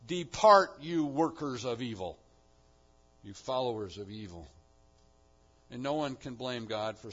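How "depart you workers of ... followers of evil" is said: a loud banishing roar on Depart; thundering command. Acted. Master banishing evildoers, thundering loud command. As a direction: cast them out with full force. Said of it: "And even worse".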